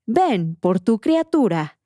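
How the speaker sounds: slow, drawn-out announcer calling someone over; lightly voiced menacing host; presenter's eerie voice. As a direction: stretch the words like a sinister presenter. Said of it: "Así con esa voz".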